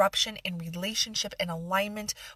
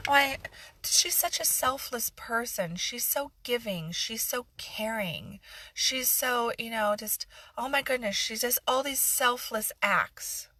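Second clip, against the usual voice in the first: mock admiration; 3 semitones higher than usual. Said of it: "I'm completely being facetious here".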